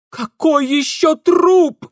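high, loud, slow alarmed shout; Ingvar shouting. A narrator's reading. Ingvar shouts at Mara about the corpse, high and alarmed. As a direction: yell it in alarm. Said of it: "заорал Ингвар".

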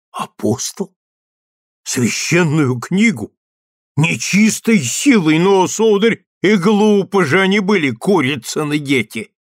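rising from stunned to loud outrage; astonished, then indignant. A narrator's reading. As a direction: gasp in disbelief then burst out. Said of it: "Майор остолбенел".

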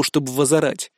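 usual speaking voice

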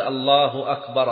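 أكبر ending in an open "a", akbara; slow takbir, adding a final "a" to أكبر; wrong accusative ending. Shown as a demonstration. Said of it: "أكبر بالنصب".

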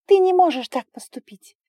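high, loud tearful cry; girl crying at the dragon; crying protest. A narrator's reading. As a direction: protest through sobs. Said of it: "Она продолжала плакать".

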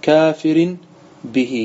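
slow, drawn-out verse reading; Quranic verse quotation. Acted. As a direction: quote the verse slowly with lengthened vowels. وأما قوله تعالى. (تلاوة الآية ببطء ومدّ)

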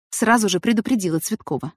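usual speaking voice

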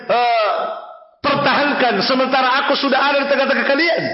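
impassioned acted reprimand, high; stern rebuke. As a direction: reproach a crowd as a retold quote. Prophet's rebuke quoted and translated.

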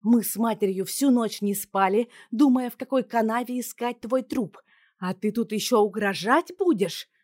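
loud, furious scolding; angry father. A narrator's reading. Father scolding his daughter, loud and angry. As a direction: rage at her.

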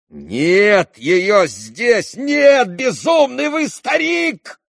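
very high, loud, slow furious yell; angry shout. A narrator's reading. Ivan shouting furiously at his father, high and loud. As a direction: shout him down in a rage. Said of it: "злобно закричал на него Иван".

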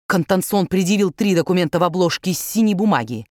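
usual speaking voice

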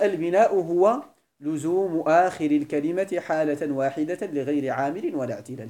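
البناء هو لزوم said slowly, word by word, for note-taking; slow dictation. Shown as a demonstration. Teacher dictating the definition to students, slowly. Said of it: "فيقال".

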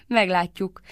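slow, laughing it off; a chuckle and then the word. A narrator's reading. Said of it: "Krishna elnevette magát". (nevetve, lassan)

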